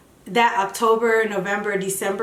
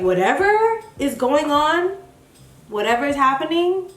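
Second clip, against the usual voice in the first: prayer. Retold or imitated. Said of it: "just praying about it".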